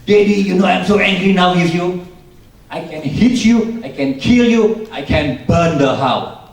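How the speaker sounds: furious imitated yell, high, loud and slow; angry shouting. Daughter screams threats at Daddy, angry shouting. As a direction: yell threats at full force, stretching the words. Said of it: "dia teriak lagi".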